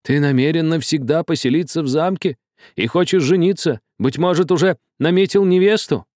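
high, escalating alarmed questions; horrified old man. A narrator's reading. Old man learns of the wedding plans, horrified. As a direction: build in horror, pitch climbing. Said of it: "Глаза старика опять выразили ужас".

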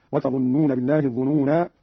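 "الظنونا" ending on long aa, then stop; alif kept at pause. Shown as a demonstration. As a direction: hold the final aa of "الظنونا" before pausing. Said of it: "بإثبات الألف وصلا ووقفا".

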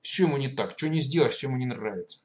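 loud, indignant grumbling; angry retort. Acted. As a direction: snap back in annoyance. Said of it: "разозлился Моська".

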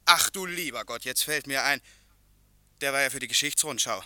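dismayed realisation. Acted. Printer on the phone realising his mistake, dismayed. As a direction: it suddenly dawns on him.

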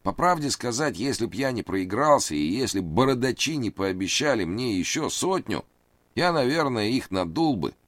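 high, anxious pleading man; nervous high voice. A narrator's reading. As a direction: raise the pitch, plead nervously. Reid voiced.

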